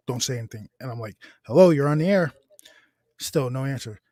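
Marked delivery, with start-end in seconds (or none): 1.5-2.3 louder, higher mock radio host. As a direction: greet the caller like a DJ on air.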